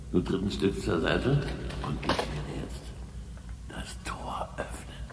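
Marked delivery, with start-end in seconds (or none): 1.9-5.0 whisper. Acted. Opening secret gate, whispered.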